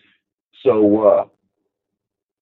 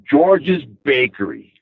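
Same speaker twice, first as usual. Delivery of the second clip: wistful; slower than usual. Retold or imitated. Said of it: "he looks at me with this wistful grin".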